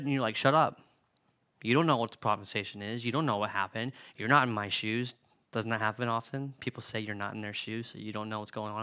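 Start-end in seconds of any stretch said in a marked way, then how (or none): 0.4-5.1 mock angry outburst.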